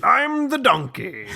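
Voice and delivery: high nasal cartoon donkey; squeaky sidekick voice. Doing Shrek donkey voice.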